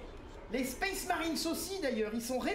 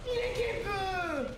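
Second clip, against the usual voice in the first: mock lament; 5 semitones higher, slower than usual. Unit bugged in game.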